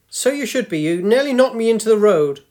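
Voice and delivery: put-on sharp reproach from an elderly woman; old woman voice. Old woman scolds young man.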